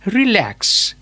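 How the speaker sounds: "relax" with the stress on lax; stress on second syllable. Shown as a demonstration. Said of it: "The stress lies in the lax".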